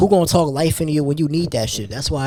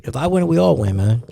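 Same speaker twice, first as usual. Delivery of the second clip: yawning. Real, not acted. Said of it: "Sorry, I'm yawning".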